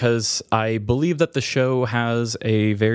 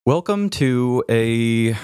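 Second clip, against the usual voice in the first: mock intro; 2 semitones higher, much slower than usual. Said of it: "I'm gonna make that the intro".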